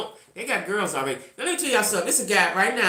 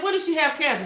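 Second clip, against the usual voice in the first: disbelieving question; 9 semitones higher than usual. Retold or imitated. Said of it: "I said".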